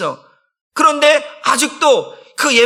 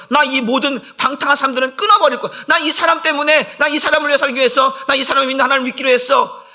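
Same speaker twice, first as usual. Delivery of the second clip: higher-pitched, quickening declaration; determined vow; 4 semitones higher than usual. Acted. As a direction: pour out a resolve for the one you love. Acted vow for a beloved person. (높은 소리로 점점 빠르게 쏟아내는 다짐)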